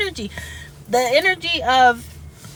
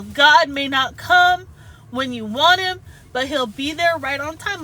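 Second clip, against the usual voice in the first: emotional; 3 semitones higher, 3 dB louder than usual. Real, not acted. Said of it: "Oh, I'm getting emotional".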